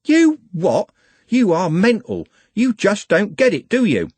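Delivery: high, loud, scornful shouting; furious yell. Acted. Trev right in Andy's face, furious yell. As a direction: go at him like a wasp.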